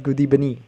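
"good evening" said as "goodee-benin"; coach's mispronunciation. Retold or imitated. Quoting the football coach, "good evening" mispronounced as "goodee-benin". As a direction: imitate an accented "good evening", v turned to b. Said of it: "people just love him for that".

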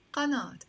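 "قناة" ending in ah plus t, qanat; long ah then t at the end of "قناة"; Lebanese T ending. Shown as a demonstration. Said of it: "In Lebanese Arabic, we say".

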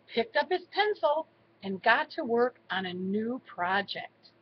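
measured bedtime-story reading; story narration to children. A narrator's reading. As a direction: read it gently as a storybook narrator. Reads a story to grandchildren.

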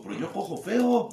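high, loud, slow laughing punchline; laughing retort. Retold or imitated. Telling the sponsor his own joke, high and laughing. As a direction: crack up while delivering the joke. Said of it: "Le digo".

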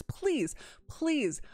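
high-pitched pleading; begging. Real, not acted. Player begging the mod devs to undo it, pleading. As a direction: plead upward, word by word. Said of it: "I am begging you".

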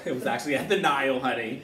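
laughing through the words. Real, not acted. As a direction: laugh while you say it. Laughing while joking about the Nile.

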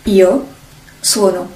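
"Io" then a pause then "sono" falling; Italian demo. Shown as a demonstration. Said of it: "First person, I am".

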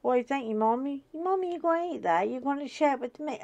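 dog voice. Retold or imitated. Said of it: "he's like".

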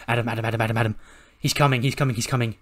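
rapid, repeated alarm; hurried, breathless-style repetition; urgent warning. Acted. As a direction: rattle it out like a panicked messenger. Messenger runs in to warn Adam.

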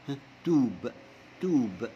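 "توب" with a long stretched oo; long vowel. Shown as a demonstration. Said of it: "دي لونج".

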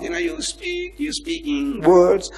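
drawn-out, high moaning words; slow high-pitched groan through the words; groaning speech. Shown as a demonstration. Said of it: "those words are not audible enough".

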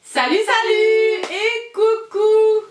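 high, slow, drawn-out hello; sing-song greeting. Real, not acted. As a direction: stretch the greeting out brightly. Cheerful video greeting to viewers.

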